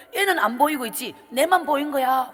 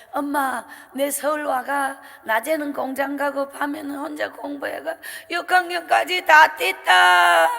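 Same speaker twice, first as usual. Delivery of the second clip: tearful cry; 5 dB louder than usual. Retold or imitated. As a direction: let it break into a wailing sob at the end. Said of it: "엄마와 제가 안고 울었어요".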